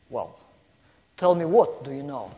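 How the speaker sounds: lightly voiced, somewhat upset policeman; changed voice. Policeman, somewhat upset, presses the lost girl, mildly stern. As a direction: drop the voice a touch, a little impatient. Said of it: "with the change of his voice".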